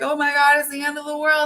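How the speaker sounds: high, overblown panic over running late; mock panic. Burned-out person running late, mock panicked high wail. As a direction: play the tiny delay like a catastrophe. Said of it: "You're like".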